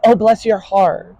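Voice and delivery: slow syrupy fake sweetness; sweet talk. Shown as a demonstration. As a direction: coo it like false flattery. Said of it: "sweet talk doesn't work".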